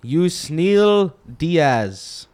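exaggerated cartoon intonation. Continues odd announcing voice.

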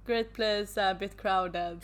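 loud mock-casual opening, then dry; hammed-up nonchalance; deadpan irony. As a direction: play it cool and ironic. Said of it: "jag bara".

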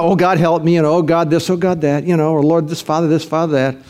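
imitating an everyday prayer on autopilot; routine prayer. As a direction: toss off the prayer words with no urgency. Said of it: "when I pray, you know, so".

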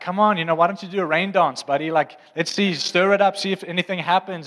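playful taunt, egging them on; cheeky mocking. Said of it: "he's mocking them".

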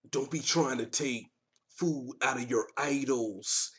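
slow, low mock quote of a rapper; slow mock reading. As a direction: read it out slowly, mocking. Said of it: "Kanye tweeted".

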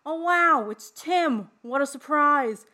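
high, loud, campy mock surprise; Bub impression. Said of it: "he goes".

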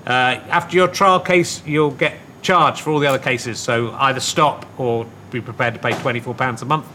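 low, casual sponsor read; podcast ad read. Real, not acted. Host pitching beer deal to listeners, casual ad read.

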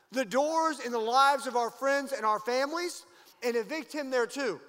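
rally the church to push back; rising call to action. Real, not acted. Preacher rallies the congregation.

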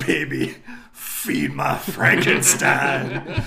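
terrible Joaquin Phoenix impression. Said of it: "That's a terrible impression of Joaquin Phoenix".

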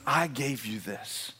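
a hint of God's voice, quiet and low; lightly voiced God. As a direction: speak softly and low as God, unhurried. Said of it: "This is God saying".

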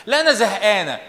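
lightly voiced bored young woman; a hint of a bored teen; mock bored girl.

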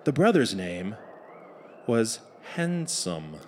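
measured once-upon-a-time delivery; fairy tale narration. A narrator's reading. Narrator sets up the tale for the audience, measured storytelling.

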